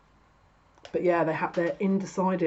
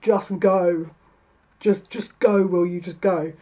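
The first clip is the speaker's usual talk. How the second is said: louder, pushy just go; impatient urging; 6 dB louder, slower than usual. Pretend. Wands urging the stuck querent, loud and impatient. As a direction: shove them out the door with your voice. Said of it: "seven wands that are like".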